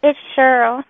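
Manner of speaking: "It's Cheryl" said firmly to correct; corrective stress. Real, not acted. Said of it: "It's my northern accent".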